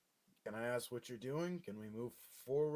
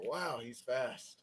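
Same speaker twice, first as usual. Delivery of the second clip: sarcastic; much slower than usual. Acted. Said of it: "I put all four of my hands on my hips and I go".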